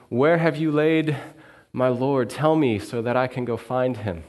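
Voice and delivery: a distraught woman begging a stranger; Mary urgently asks the gardener where her Lord is; pleading Mary. Acted.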